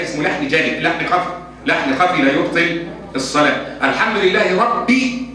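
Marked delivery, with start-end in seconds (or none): 3.8-5.3 ربي read rabbi, kasra on the ba. Shown as a demonstration. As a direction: slowly stress ربي with i on the ba. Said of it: "بكسر الباء".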